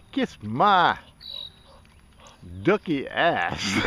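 a put-on fake Chinese accent voicing the duck. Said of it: "with a Oriental accent".

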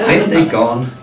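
measured phrases with pauses between; deliberate storytelling poetry delivery; poem reading. Acted. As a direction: read a dream poem aloud to an audience. Ends the poem aloud.

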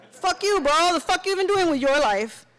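high, loud furious retort; angry outburst. Acted. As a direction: snap back hard, stung. Bro insulting Izzy angrily.

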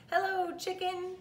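high, cheery duck hello; Duck's greeting. A narrator's reading. Duck greeting Cow from his bike, high and chirpy. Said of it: "said Duck".

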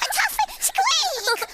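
slow, high, squeaking call to the tuffet; high squeaky call. Shown as a demonstration. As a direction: draw it out, way up high like a mouse. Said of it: "Look, I'll show you".

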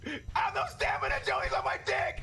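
high breathless panicked cry; panicked squeal. Real, not acted. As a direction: squeal while running. Fleeing monster, no stamina.

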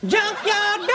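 high, drawn-out cry; excited exclamation. Acted. Actor delivering his big line in a take, high excited cry. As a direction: whoop it high and long. Acting the scene after "Action.

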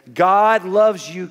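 slow, loud, lifted, every word leaned on; emphatic declaration. Acted. Pastor declaring to the inmates, slow and loud. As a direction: hammer home God loves you. Preacher driving home his point.

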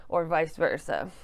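jittery from medication. Real, not acted. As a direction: speak with jittery nerves. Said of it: "I'm wicked jittery now".

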